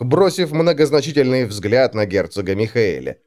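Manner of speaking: plain reading voice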